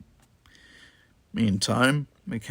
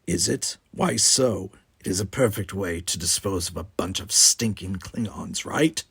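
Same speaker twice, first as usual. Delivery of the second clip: contemptuous. Acted. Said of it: "said Gower contemptuously".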